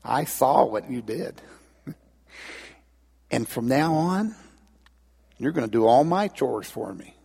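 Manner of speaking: lightly voiced scheming little sister; knowing blackmail. Acted sister blackmailing her brother.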